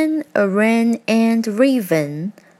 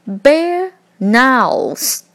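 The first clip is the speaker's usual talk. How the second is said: loud high snarl of a line; 6 semitones higher, 3 dB louder than usual. A narrator's reading. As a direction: growl it out loud. Bear wakes angry.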